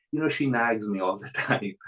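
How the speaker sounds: a lightly laughing grumble; chuckling complaint. Retold or imitated. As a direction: shrug off the nagging with a chuckle. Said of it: "and he was chuckling".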